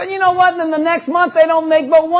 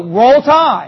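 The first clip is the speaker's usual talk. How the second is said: fan cheer; 5 dB louder than usual. Shown as a demonstration. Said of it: "Go, go".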